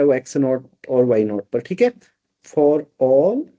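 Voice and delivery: ordinary talk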